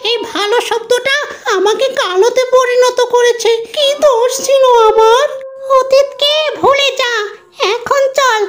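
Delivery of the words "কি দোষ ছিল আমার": crying. Acted. Wronged spirit laments past.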